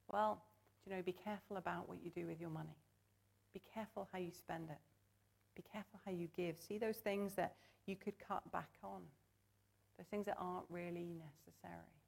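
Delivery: softly voiced cautious adviser; mild, quiet note of prudent advice; voice of prudence. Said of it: "prudence would kind of say".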